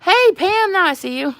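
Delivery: excited greeting. Real, not acted. Spotting Pam in the live chat, a loud happy hello. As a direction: call out to a friend you finally spot.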